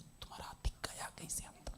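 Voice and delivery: whispered imitation of a baffled participant; mock puzzled thought. Puzzled participant wondering how the elephant got inside, mock whisper. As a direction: whisper it like a private, incredulous thought. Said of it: "उनके बारे में सोच".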